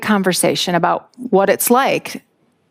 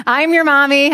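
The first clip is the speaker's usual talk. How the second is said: insistent mom; 5 semitones higher than usual. Retold or imitated. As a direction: claim your child in front of everyone. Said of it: "And so I'm like".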